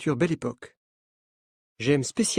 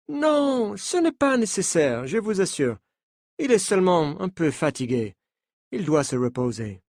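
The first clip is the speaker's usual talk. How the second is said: put-on higher French with a light American accent; 3 semitones higher than usual. Coach telling the journalists not to panic, in a light American accent. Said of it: "dit-il avec un accent américain".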